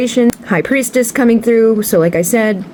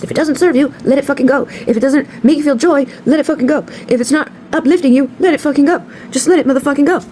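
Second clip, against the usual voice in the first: high, fired-up urging; emphatic; 5 semitones higher than usual. Real, not acted. Reader urging viewers to let go, fired up. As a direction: drive each let it go home.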